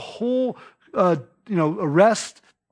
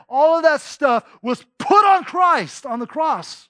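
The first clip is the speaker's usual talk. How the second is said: full-force preaching; 3 semitones higher than usual. Acted. Preacher listing humanity's sins to the congregation, rising intensity. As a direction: build the weight of every sin.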